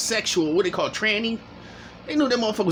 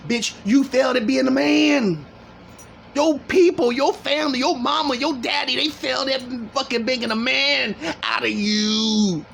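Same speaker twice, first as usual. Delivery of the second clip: yelling higher, close to tears; angry shouting; 5 semitones higher than usual. Real, not acted. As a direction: shout it like a cracking, furious rant. Furious rant at guest on video.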